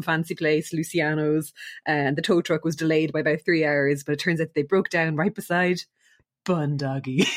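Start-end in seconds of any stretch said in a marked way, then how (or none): 5.2-7.3 a suspenseful pause before "bun doggies"; dramatic pause. Retold or imitated. Co-host retelling the breakdown, dramatic pause before "bun doggies". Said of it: "with that dramatic pause".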